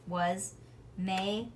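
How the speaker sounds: plain reading voice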